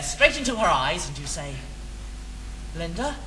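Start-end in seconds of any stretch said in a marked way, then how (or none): 2.7-3.2 low, hushed mock-seductive lover's voice; mock romantic lover. Teaching his friend what to say to Linda, mock seductive lover. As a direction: ham up a lover's declaration, lower and softer.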